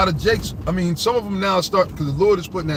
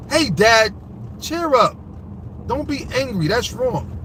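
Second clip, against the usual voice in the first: mock child voice; 6 semitones higher, slower than usual. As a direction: play the cheerful kid from the ad, mocking it. Mocking a child in a commercial.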